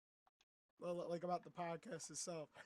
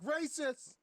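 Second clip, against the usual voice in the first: high, loud mock outcry; mock accusation; 8 semitones higher, 6 dB louder than usual. Friend imitates storyteller accusing teacher, mock outrage.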